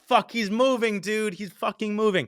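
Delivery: high, tense alarm; sudden panic as the bike moves; panicked. Retold or imitated. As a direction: voice jumps up in alarm. Panicked as tracker shows thief moving.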